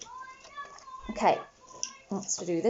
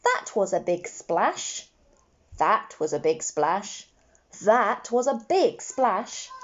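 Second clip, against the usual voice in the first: slow choral repeat. Shown as a demonstration. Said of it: "Let's say our sentence three times".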